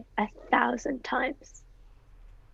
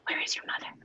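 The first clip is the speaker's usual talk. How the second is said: teasing whisper; 7 dB quieter, faster than usual. Acted. Nurse teasing Juliet.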